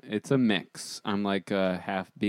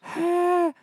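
airy high sigh; 3 dB louder than usual. Pretend. Drawing air before airy take.

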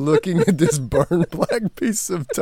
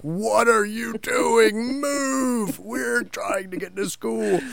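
higher mock scolding of a dawdling kid; exasperated parent; 7 semitones higher, slower than usual. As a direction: hurry the kid along, hammed up a little. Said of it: "you're like".

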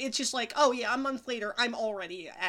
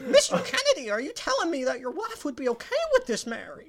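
high mock interviewer; 5 semitones higher than usual. Voiced character questioning.

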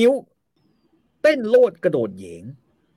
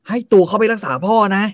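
hammed-up plea; 6 semitones higher, 5 dB louder than usual. Suwannamali voiced urging release.

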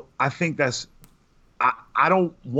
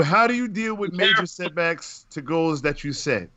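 "How do you deal" launched high, then falling; raised-pitch reading; 5 semitones higher than usual. Real, not acted. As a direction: read the question out high and animated. First reading of listener's question.

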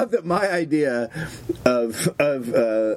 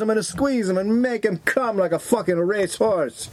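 put-on a lightly done Eastern Bloc accent; a hint of a crude Eastern Bloc foreigner; 3 semitones higher than usual. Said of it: "almost Eastern Bloc".

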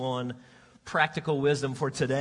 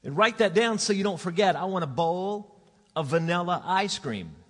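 hollering; 3 semitones higher, 4 dB louder than usual. Retold or imitated. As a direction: yell it across the house. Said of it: "she hollers out".

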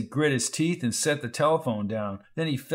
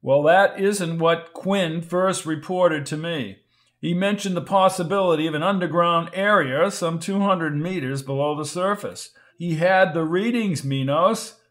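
insistent arguing; 4 semitones higher, 4 dB louder than usual. Acted. Arguing back.

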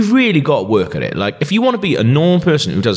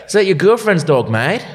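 Australian accent, mocking a man walking a small dog; Australian bloke; 6 semitones higher than usual. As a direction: tease like a cocky Aussie from a van. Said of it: "he's fucking Australian".

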